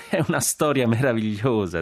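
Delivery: high, delighted remark after laughter; laughing delight. Acted. Jack wiping tears after laughing, delighted. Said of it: "asciugandosi le lacrime".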